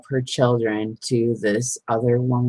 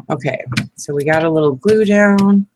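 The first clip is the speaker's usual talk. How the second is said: ordinary talk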